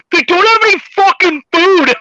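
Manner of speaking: high-pitched mock outrage; imitated outcry. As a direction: act out an indignant crowd, high and punchy. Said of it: "that's how they said it".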